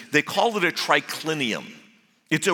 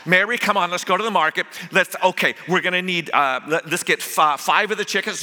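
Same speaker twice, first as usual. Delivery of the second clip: fussing Martha; 3 semitones higher than usual. Acted. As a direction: rattle off the shopping list in a fluster. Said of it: "She's fussing".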